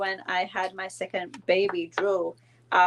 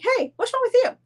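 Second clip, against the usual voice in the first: mom; 5 dB louder than usual. Retold or imitated. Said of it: "she's like".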